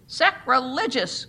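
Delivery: loud, slow outraged cry; crowd screaming. A narrator's reading. The scandalised crowd screams at the church, loud and slow. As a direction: stretch it out as a scandalised shout. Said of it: "screamed the crowd".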